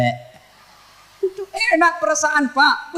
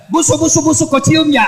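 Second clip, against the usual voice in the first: mock complaining wife; 3 semitones higher, 4 dB louder than usual. Wife complains about his breath.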